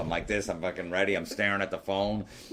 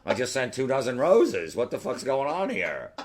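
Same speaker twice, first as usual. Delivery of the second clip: higher, exasperated retold complaint; indignant disbelief; 5 semitones higher than usual. Man stewing over the silent phone, indignant. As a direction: replay your baffled frustration, stretching the last question. Retelling his frustrated waiting by phone.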